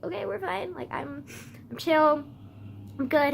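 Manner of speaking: forced calm. Retold or imitated. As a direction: pretend you're okay. Calming herself after panic.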